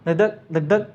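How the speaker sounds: धक धक said in quick, even pairs; brisk heartbeat rhythm; quick steady heartbeat. Shown as a demonstration. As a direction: tap out a quick rhythmic beat. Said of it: "धक धक तुरंत आता है".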